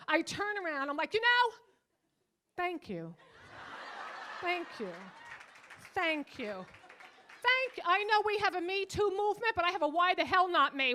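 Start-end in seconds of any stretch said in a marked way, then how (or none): 1.1-10.9 half-joking outcry, loud and high; a hammed-up protest, building to a yell; mock indignant shout. Comic to the street groper, a mock protest that builds to a shout.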